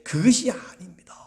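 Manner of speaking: hushed, conciliatory denial; gentle denial. Acted. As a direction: explain it gently, almost whispering. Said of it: "그것도 부드럽게".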